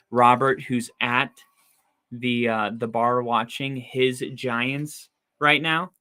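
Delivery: hoarse, worn-out voice. Real, not acted. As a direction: voice going hoarse. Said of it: "I'm losing my voice".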